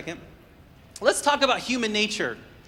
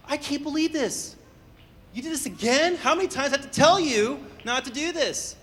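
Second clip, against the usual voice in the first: higher, louder exasperated parent; a parent acting shocked at a repeated mistake, higher and louder; mock surprise; 6 semitones higher, 4 dB louder than usual. Shown as a demonstration. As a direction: play the shocked, nagging parent. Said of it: "when you act surprised".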